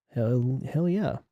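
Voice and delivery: mock Jamaican accent. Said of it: "what accent is that?".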